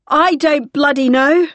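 loud, slow, fed-up yell; exasperated shout. Acted. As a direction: snap it back over the noise. Exasperated yell over alarm.

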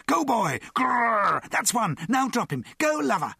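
high, frenzied shouts with a growl; screamed urging. A narrator's reading. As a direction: goad your dog on, growling along. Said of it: "screamed Mister T".

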